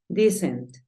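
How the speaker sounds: "Decent" said as dee-sent; pronunciation demo. Shown as a demonstration. Teacher repeating the solved word, pronunciation demo. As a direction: model "Decent" with an EE first vowel. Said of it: "Entonces digo decent".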